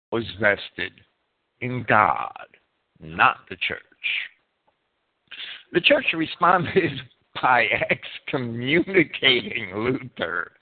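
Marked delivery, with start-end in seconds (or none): 5.7-10.5 amused, drawn-out delivery with a chuckle; stifled laughing. Real, not acted. Lecturer laughing at the church excommunicating Luther, amused and chuckling. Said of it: "I'm laughing at that".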